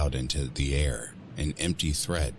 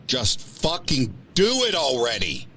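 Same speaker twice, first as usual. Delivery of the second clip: high, loud desperate scream; screaming at herself; 10 semitones higher, 6 dB louder than usual. Acted. Woman screaming at her reflection in the mirror, desperate. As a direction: scream it at your own reflection. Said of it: "I scream at the face in the mirror".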